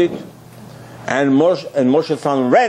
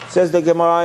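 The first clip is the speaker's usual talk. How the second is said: normal talking voice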